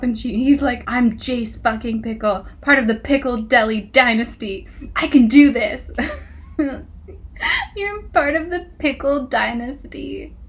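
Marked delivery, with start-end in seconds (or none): 0.9-5.9 mock pep talk, building louder to the end; hyping himself up. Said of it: "trying to hype himself up". 7.8-10.3 high-pitched incredulous echo; mocking disbelief. Real, not acted. Mocking the hero's boast back.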